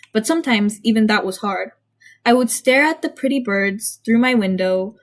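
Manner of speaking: measured first-person storytelling; story narration. A narrator's reading. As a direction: read it aloud like a confessional tale. Reads own story aloud.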